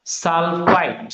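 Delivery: সালফাইট stretched out very slowly; slow dictation. Shown as a demonstration. Teacher drilling students on the name, slowly stretched. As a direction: draw out each syllable of সালফাইট. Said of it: "SO three কে বলবো আমরা".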